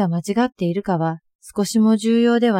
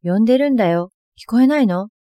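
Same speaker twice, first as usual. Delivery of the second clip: raised, higher retold yell at mother; loud call; 3 semitones higher, 5 dB louder than usual. Daughter yelling at her mother, loud and annoyed. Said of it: "大きな声で".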